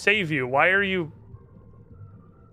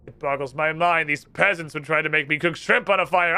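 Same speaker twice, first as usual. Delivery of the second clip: lightly voiced haughty wizard ranting; grandly declaring his vengeance; evil wizard rant; 2 semitones higher, 4 dB louder than usual. Wizard curses the island and its tutors, lightly hammed.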